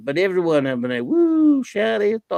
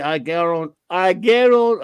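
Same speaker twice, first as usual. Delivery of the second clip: 试着用卡真口音说 "I guarant-"，第二次更响; Cajun accent attempt; slower than usual. Shown as a demonstration. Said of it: "can you say ... like Justin Wilson".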